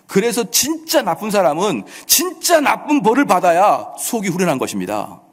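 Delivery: ordinary talk, nothing marked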